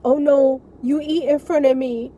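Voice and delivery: a hint of a sick mother's hurt protest; mother's dismay. Sick mother catching her daughter eating, dismayed. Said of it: "And she's like".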